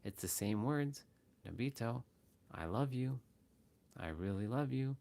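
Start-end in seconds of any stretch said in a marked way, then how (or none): 1.5-5.0 tender, sincere love; loving. Shown as a demonstration. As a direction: say it with real love. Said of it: "so that one was more love".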